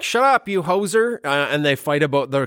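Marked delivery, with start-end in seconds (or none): 0.0-1.2 put-on higher, jokey Canadian accent; mock Canadian retort. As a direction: play a Canadian snapping back at a friend. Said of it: "they're like".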